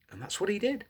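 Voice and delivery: ordinary delivery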